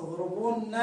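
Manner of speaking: اضربن with long u before the n; original uncontracted form. Shown as a demonstration. Teacher shows the original verb form, long vowel kept. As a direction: draw out the waw in اضربن, then the nun. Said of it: "والأصل".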